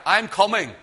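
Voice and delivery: war cry. Acted. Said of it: "and it's a war cry".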